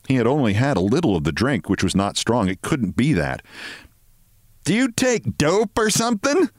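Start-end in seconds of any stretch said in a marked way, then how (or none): 4.6-6.5 higher, cool and suspicious; cold question. A narrator's reading. Mrs Barrows coldly questioning Mr Martin's behaviour, cold. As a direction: ask it with a chill. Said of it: "asked coldly".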